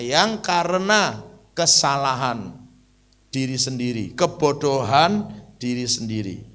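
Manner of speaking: loud, slow, emphatic sermon; full-force preaching. Acted. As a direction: drive each point home from the pulpit.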